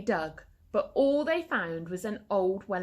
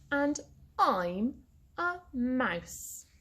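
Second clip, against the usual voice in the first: mouse voice; 5 semitones higher, much slower than usual. A narrator's reading.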